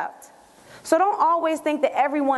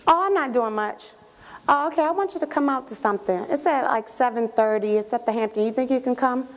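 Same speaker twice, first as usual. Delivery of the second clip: unexcited invitation. Acted. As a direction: ask casually, with none of the excitement. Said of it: "different from when you call and I just say".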